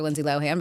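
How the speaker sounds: Lohan as LOH-han, h sounded; common pronunciation. Shown as a demonstration. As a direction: say Lohan with a clear "han" ending. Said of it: "Everybody calls her".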